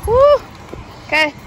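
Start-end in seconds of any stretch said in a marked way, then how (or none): 0.1-0.4 cheer. Real, not acted. Arriving, cheering destination.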